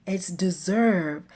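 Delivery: announcing. Retold or imitated. Announces the name to her husband.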